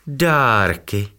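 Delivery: a scared little hen's gasped question; frightened exclamation. Acted. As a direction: blurt it out in alarm. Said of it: "zvolala kropenatka a podívala se vyděšeně".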